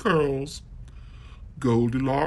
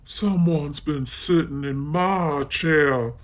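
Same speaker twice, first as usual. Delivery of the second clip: exclaimed. Acted. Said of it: "Mommy Bear exclaimed".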